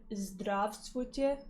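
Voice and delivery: "здравствуйте" slow and careful, learner style; learner's Russian. Shown as a demonstration. Showing the chat her Russian greeting, slow and careful. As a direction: sound out "здравствуйте" syllable by syllable. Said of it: "Pardon my butchering of the pronunciation".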